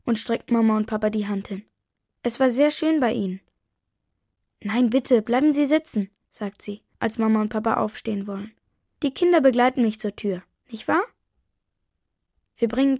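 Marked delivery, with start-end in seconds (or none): none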